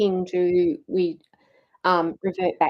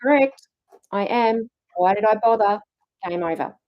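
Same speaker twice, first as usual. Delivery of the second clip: mock give-up, firm and a touch raised; shrugging resignation; 2 semitones higher, 3 dB louder than usual. Coach voices someone simply agreeing they are a loser, shrugging resignation. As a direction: act out throwing in the towel. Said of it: "shrug your shoulders and go".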